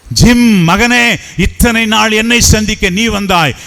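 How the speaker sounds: Jesus calls Jim by name, lifted voice; Jesus calling Jim. Acted. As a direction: call out to Jim like a loving father.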